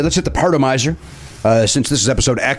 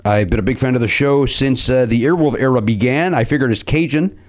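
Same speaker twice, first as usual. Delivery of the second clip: put-on Cajun accent. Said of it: "you're still doing the accent".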